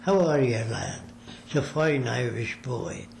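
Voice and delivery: lightly put-on Irish brogue, a friendly greeting; imitating an old Irish neighbour's brogue, half-hearted. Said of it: "an Irish brogue".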